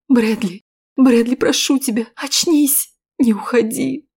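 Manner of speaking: high pleading cry; high desperate plea; pleading through tears. Acted. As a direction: beg him to wake up. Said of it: "сквозь слёзы шептала я".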